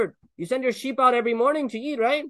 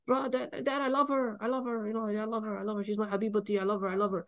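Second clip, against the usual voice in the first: pleading son; 8 dB quieter than usual. Retold or imitated. Son begging dad about marriage.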